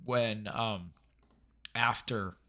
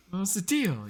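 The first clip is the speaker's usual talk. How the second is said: higher-pitched mock pleading; pathetic whine; 6 semitones higher than usual. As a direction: plead it in a mildly whiny imitation. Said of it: "it's panicky, then it's pathetic, and it's whiny".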